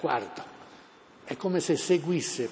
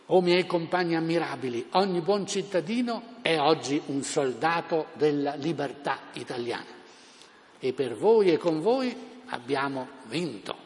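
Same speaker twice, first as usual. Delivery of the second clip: town crier. Retold or imitated. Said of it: "la parola a Gabriele D'Annunzio".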